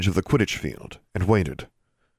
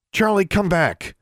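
high, urgent call; 13 semitones higher than usual. A narrator's reading. Girl calling her raven away from danger, urgent call. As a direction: call the bird back, voice pitched up.

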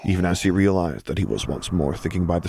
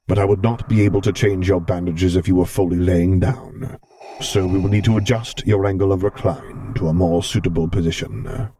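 velvet voice; 4 dB louder than usual. Acted. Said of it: "Vader rumbled softly".

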